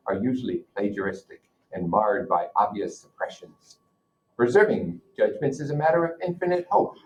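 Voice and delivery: steady read-aloud voice for the class; reading a novel aloud. Acted. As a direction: read the passage out to students, measured and clear. Teacher reads novel aloud to class.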